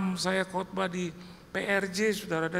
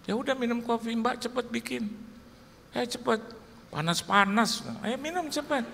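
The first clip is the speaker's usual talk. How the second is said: bossy wife; 7 semitones higher than usual. Retold or imitated. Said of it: "Saya bilang".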